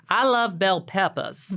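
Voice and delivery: slow, bad Jersey accent attempt; badly faked Jersey accent, drawn out. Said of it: "I'm gonna try. It's gonna be bad".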